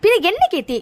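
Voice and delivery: flaring up at the friend who calmed her; angry retort. Acted. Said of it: "இப்ப எதுக்கு நீ இவ்ளோ கோவப்படுற".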